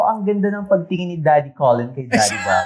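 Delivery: shouted. Pretend. Shouts fake review aloud.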